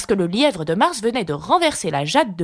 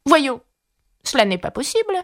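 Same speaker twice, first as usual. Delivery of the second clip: voix douce; 7 semitones higher than usual. A narrator's reading. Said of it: "d'une voix douce".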